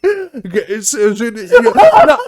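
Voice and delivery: loud, high hammed-up Australian accent; mock Australian accent. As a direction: play a rowdy Aussie bloke, loud and high. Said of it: "we are in Australia".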